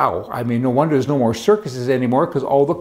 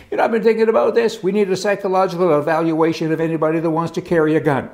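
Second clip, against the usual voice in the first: mock sheriff; 2 semitones higher, faster than usual. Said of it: "You have sheriffs there that say".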